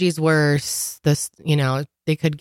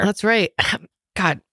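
choking on a laugh; 3 semitones higher than usual. Real, not acted. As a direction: laugh caught in the throat. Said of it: "You sound like you're choking".

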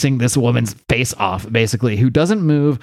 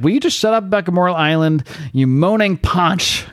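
mock exasperated telling-off, higher pitched; exasperated retort; 4 semitones higher than usual. Jenny tells Apollo to shut up about Gamora Island, exasperated. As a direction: snap back in mock irritation, dragging out the insult.

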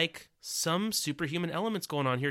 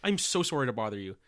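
apologetic Canadian villain, half laughing; Canadian accent; 2 semitones lower than usual. Acted. Villain apologising to a captive, in a light Canadian accent. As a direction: play an overly polite Canadian, amused. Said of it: "very not quite lit Canadian".

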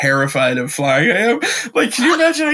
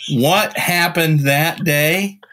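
a hint of a rambling conspiracy father; conspiracy dad; 3 semitones higher than usual. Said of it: "he's like".

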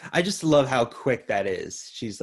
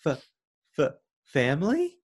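stammering mock Johnny; 4 semitones higher than usual. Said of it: "And Johnny's like".

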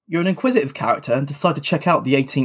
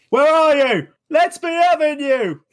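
put-on high, louder, slow drunken yell; Delia shouting; 13 semitones higher, 4 dB louder, slower than usual. Delia Smith calls for her lost dog, drunken shout. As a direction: bellow it across the heath. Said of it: "Delia Smith shouting".

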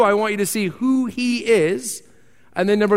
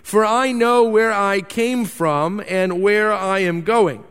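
scripture reading. Acted. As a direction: read the passage deliberately to the congregation. Reads scripture passage aloud.

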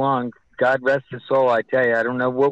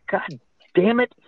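higher-pitched retold curse; exasperated official; 7 semitones higher than usual. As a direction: imitate an official's exasperated swearing.

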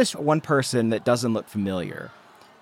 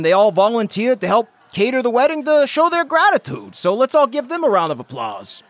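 cheery dad speech; 4 semitones higher than usual. Acted. GM continues Brewster speech.

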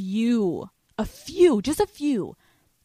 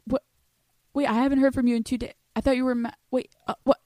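confused guy voice; 4 semitones higher, much faster than usual. Retold or imitated. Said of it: "He's gonna be like".

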